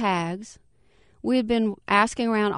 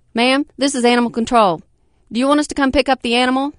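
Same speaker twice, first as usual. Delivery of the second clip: brisk official; 4 semitones higher, 7 dB louder, faster than usual. Acted. Animal control officer on phone.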